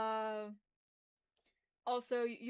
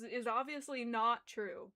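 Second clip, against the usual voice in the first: defensive; 3 dB louder, slower than usual. Acted. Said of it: "I say that defensively".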